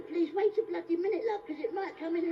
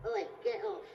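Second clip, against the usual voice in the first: low, clipped Cockney gangster snap; a hint of Michael Caine barking at a shark; Michael Caine impression; 5 semitones lower than usual. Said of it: "I can actually do Michael Caine in the film Jaws".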